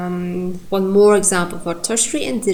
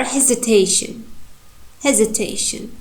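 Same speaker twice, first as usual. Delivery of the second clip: "hesitation" with main stress on TA; stress on third syllable. Shown as a demonstration. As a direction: let TA carry "hesitation". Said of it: "you can feel this strong syllable".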